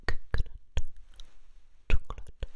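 crisp, close whisper of single words; whispered test words. Shown as a demonstration. Doctor whispering test words for patient to repeat. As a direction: breathe each word out for a hearing test. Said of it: "I'm just going to whisper two words".

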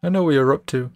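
put-on brash, taunting teenage bully; cocky bully voice. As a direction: sneer it like a swaggering rival. Groose taunting Link.

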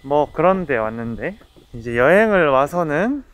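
muffled behind cloth mask; talking masked while walking; through a face mask. Real, not acted. Seen 3: Black face mask over mouth throughout; no mask in refs.

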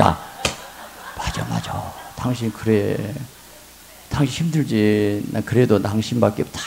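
soft, slow coaxing agreement; hushed tender wife. Retold or imitated. Wife tenderly soothing her grumbling husband. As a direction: soothe him gently.

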